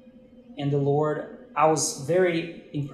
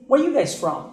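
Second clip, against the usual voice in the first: much higher and louder, startled; retold amazed question; 9 semitones higher, 6 dB louder, faster than usual. Pastor hearing the couple is Brazilian, high startled question. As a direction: ask it like you can't believe it.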